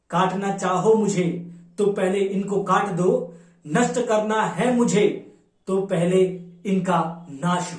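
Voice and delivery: declamatory Hindi verse in Kalyug's words; poem recitation. Acted. Kalyug declares his intentions before Brahma, declamatory poem recitation. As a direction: declaim the verse in measured, rhythmic lines.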